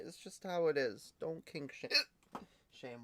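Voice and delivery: hiccups between words; hiccuping. Real, not acted. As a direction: talk through the hiccups. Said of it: "Why are we hiccuping".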